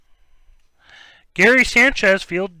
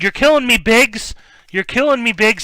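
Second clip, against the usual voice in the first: mock movie quote; 6 semitones higher, 4 dB louder than usual. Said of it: "The guy said".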